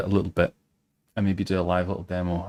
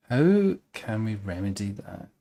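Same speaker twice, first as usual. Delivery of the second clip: slow and pondering; 4 dB quieter than usual. Shown as a demonstration.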